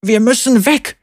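a lightly voiced man urging her away; mild call to go. A narrator's reading. A man pulls the woman along, calling mildly. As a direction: hurry the woman out. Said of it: "rief ein Mann".

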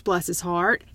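bless, stretched sweetly, Southern style; Southern bless his heart. Shown as a demonstration. Host showing the English cohost how, in a syrupy Southern accent. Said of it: "That's how you say it".

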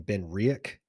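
Riach as 'REE-ick', hard k ending; adopted pronunciation. Shown as a demonstration. Explaining his adopted pronunciation, Riach as 'ree-ick'. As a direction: say Riach with a short, unstressed 'ick'. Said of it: "I've adopted saying".

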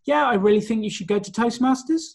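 every phrase lifts like a question; question intonation. Shown as a demonstration. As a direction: uptalk that undercuts the advice. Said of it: "if I delivered my message here today to your audience saying".

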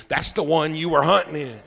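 words spoken through a laugh; buddy laughing at the punchline. Retold or imitated. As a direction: chuckle while teasing your friend. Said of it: "he started laughing".

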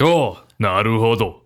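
anime Japanese voice. Acted. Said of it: "I'll break into Japanese and be like".

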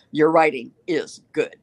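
slow and deliberate, each word weighed; firm encouragement. Retold or imitated. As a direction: say it slowly so she believes it. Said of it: "She said".

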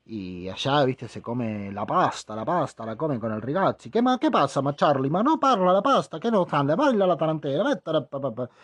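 hammy Italian-Spanish show-off; mock Italian. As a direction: wave your hands like a fake Italian. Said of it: "Entonces dicen".

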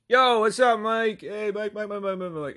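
high mock chorus of greetings; crowd calling out. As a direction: imitate a roomful hollering back, tailing into chatter. Crowd greeting Mike back, voiced.

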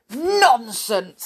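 snapped. Acted. Stubborn listener dismissing Mister Bump's news, snapping. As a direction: snap it back dismissively. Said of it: "snapped little Miss Stubborn".

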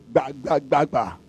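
soft repeated knocking syllables; imitated door banging. Storyteller imitating banging on her door, soft knocks. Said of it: "She had the bang on her door".

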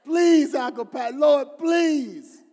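a touch of tearful begging; mock crying plea. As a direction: beg the Lord as if near tears, hammed up. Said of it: "crying possibly".

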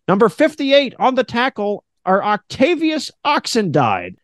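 mock stadium announcer call; radio announcer. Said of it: "I gotta get back into radio".

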